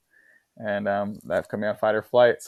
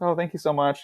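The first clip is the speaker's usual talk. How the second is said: higher, eager-to-please thanks; people pleasing; 6 semitones higher than usual. Retold or imitated. Customer thanking the bully to win him over, people pleasing. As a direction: imitate over-polite gratitude to placate someone. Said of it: "I was just people pleasing".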